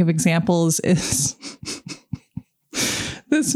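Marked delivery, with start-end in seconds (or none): 1.4-2.4 quiet, breath-only laugh. Real, not acted. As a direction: laugh softly under the breath. Laughs before naming example movie.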